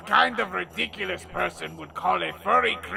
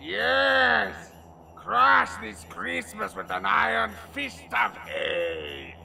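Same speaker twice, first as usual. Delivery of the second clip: gloating yell; 4 semitones higher than usual. Acted. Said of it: "are you gonna yell after every line".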